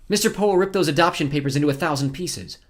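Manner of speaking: put-on high, forceful girl's voice; defiant girl. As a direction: accuse the villain, pitched high.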